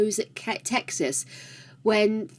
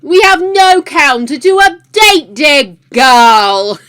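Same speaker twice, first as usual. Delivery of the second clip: excited exclamation; 5 semitones higher, 11 dB louder, much slower than usual. Real, not acted. Answering a chat request playfully.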